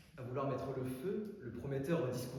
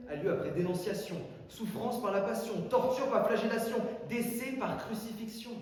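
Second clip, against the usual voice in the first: rising dramatic list; 7 semitones higher, 4 dB louder than usual. Acted. Mock-biblical list, building.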